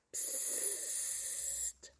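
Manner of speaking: long, hushed hiss; very soft warning shush; whispered shush. A narrator's reading. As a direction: shush someone urgently without voice. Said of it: "flüsterten alle".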